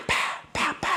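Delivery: breathy whispered pa pa pa; whispered salt sprinkles. Retold or imitated. Salting sounds whispered. (속삭이는 파 파 파)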